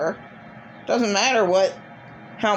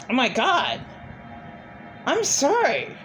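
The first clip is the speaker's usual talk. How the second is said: re-enacted horrified apology, pitched up; retold frantic apology; 5 semitones higher than usual. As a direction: plead for forgiveness in a high voice. Retells horrified apology to crying child.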